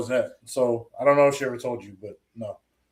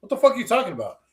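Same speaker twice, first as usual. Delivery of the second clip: higher-pitched mock confusion; retold bafflement; 6 semitones higher, faster than usual. Answering a partner's random remark, mock bafflement. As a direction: imitate a baffled comeback.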